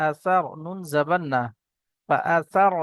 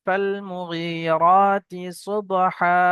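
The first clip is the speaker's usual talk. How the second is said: slow drawn-out Quran recitation; much slower than usual. Shown as a demonstration. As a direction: chant each word slowly. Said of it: "teacher recites the verse".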